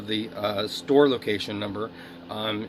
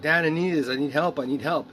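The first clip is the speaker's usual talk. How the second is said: mock manic pleading; 4 semitones higher, 4 dB louder than usual. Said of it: "I'm like".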